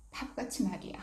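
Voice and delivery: a scolding whisper aimed at yourself; whispered self-reproach. Retold or imitated.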